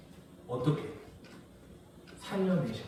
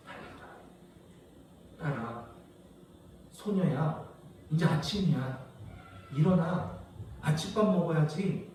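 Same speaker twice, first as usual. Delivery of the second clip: softer, tender wake-up call; loving voice; 5 dB quieter than usual. Retold or imitated. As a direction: gently wake a beloved child. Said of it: "사랑을 담은 그 음성으로". (사랑을 담아 부드럽게 깨우듯)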